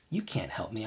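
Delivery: low, soft grumble; muttering. A narrator's reading. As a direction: mutter it under your breath. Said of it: "I muttered to him".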